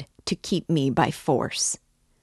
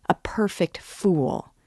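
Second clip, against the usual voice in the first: whispered; 4 semitones higher, slower than usual. Acted. Taunting friend in story.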